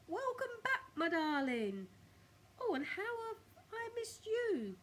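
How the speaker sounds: high, delighted cry of welcome; joyful cry. A narrator's reading. Old woman greeting her tortoise with joy. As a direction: gush with joy over a returning pet. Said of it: "clap her hands with joy and cry out".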